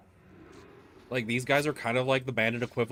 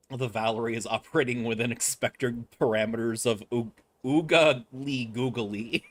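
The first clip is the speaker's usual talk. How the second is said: robot voice. Pretend. Mock robot status report.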